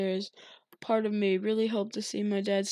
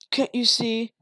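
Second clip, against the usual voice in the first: angry hiss; 3 semitones higher, 6 dB louder, slower than usual. A narrator's reading. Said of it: "he hissed".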